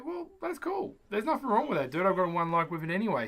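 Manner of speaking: high, airy, shrugging it off; high mock breezy. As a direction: brush it off in a high, carefree voice. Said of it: "But then you just go".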